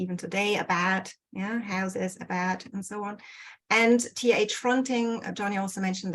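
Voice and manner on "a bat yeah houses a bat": "a bat" for about, houses as "hahses"; flat mouth vowel. Shown as a demonstration. Lecturer showing today's Cockney, flat mouth vowel. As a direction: flatten the ow in houses to a long open "a". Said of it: "this open flat mouth vowel".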